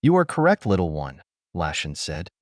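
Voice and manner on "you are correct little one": a cruel sneer; mocking. Villain sneers at captive.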